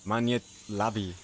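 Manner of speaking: Maniet labi run as one word; one smooth Maniet labi; words run together. Shown as a demonstration. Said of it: "all together".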